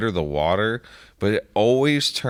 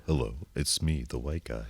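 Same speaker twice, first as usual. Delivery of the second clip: much lower, much softer mock white guy; stereotypical white guy; 8 semitones lower, 10 dB quieter than usual. Mocking a stereotypical white guy, low soft parody voice. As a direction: drop it low and bland, a parody. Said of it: "stereotypical accent for everyone".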